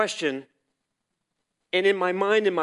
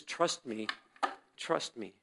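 much softer, lower reply; a gentle voice heard inside; hushed, low reassurance; soft inner voice; 5 semitones lower, 9 dB quieter, slower than usual. Retold or imitated. God answers in his mind.

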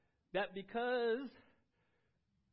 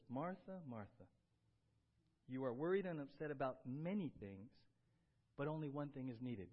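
lower, gentle but firm rebuke; loving firm correction; 4 semitones lower than usual. Retold or imitated. Jesus gently correcting worried Martha, lower and tender. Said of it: "lovingly but firmly in love corrects her".

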